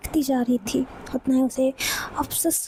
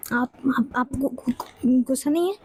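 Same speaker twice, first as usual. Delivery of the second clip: stunned stammer. Acted. Shocked Misty stammers.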